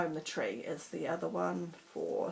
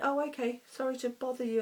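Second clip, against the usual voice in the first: put-on heavy Indian accent; 6 semitones higher, faster than usual. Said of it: "his very heavy Indian accent".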